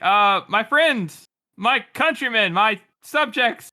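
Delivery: slow, lofty address; grand king speech. Acted. King addressing his people, slow lofty oratory.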